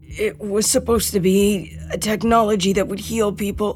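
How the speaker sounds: stammering. Sturgis answers her question about the tag project, stammering. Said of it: "Sturgis stammered".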